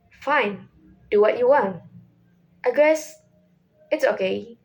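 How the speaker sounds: level, disinterested, resigned to it; flat steady tone. Shown as a demonstration. Teacher giving practice lines, flat steady tone. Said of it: "keep your voice steady".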